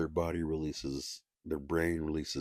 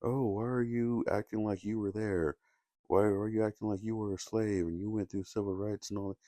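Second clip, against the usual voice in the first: incredulous skeptic; 6 semitones higher than usual. Retold or imitated. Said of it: "people will say".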